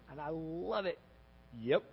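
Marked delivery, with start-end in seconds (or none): 1.6-1.8 casual yep. Retold or imitated. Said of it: "Jesus says to them one word".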